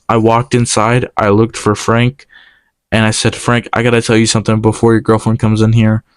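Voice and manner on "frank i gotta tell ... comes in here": fast and winded after running; out of breath. Real, not acted. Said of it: "Why are you running out of breath?".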